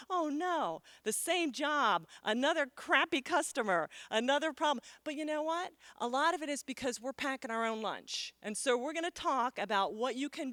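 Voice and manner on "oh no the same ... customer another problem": higher, louder whiny gripe; mock complaining. Imitating an audience member griping about work, higher and whiny. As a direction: whine like a fed-up worker. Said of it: "sitting there complaining about".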